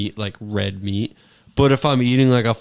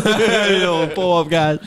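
higher hyped call; rowdy party animal; 5 semitones higher, much slower than usual. Pretend. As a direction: call the crew over, pumped. Hype call to friends.

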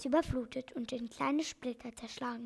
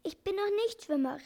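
higher, panicky little cry; Tschitschi screaming; 6 semitones higher than usual. Acted. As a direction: cry out in fear of drowning. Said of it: "schrie Ti-, Tschitschi". (hoher, ängstlicher Ausruf)

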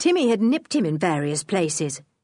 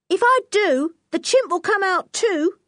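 put-on high-pitched young boy voice; Nobby, a defiant boy; 12 semitones higher, 4 dB louder than usual. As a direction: pitch it way up, pressing the warning.

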